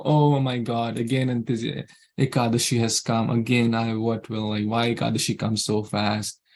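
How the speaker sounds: low, grudging mock complaint; lightly acted reluctant groaner; disgruntled. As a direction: grumble half-heartedly, as if dreading it. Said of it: "with a disgruntled mind and mood".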